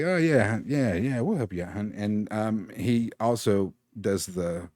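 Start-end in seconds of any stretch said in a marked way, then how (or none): 0.0-1.9 thug voice. Acted. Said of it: "it's like".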